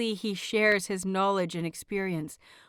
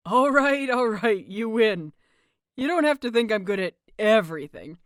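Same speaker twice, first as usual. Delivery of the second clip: laughing; 5 dB louder than usual. Acted. Laughing, giving in to husband.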